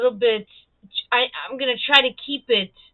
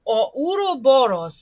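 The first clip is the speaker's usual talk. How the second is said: Ouroboros in Serbian, rolled r, open o vowels; Serbian pronunciation; 2 semitones higher, slower than usual. Shown as a demonstration. Showing viewers a Serbian Ouroboros. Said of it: "how a Serbian would pronounce".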